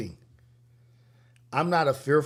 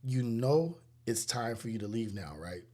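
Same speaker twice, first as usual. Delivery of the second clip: measured, slightly lowered courteous request; respectful; 3 semitones lower, 4 dB quieter than usual. Retold or imitated. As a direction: imitate a monster politely asking someone to leave. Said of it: "he respectfully says".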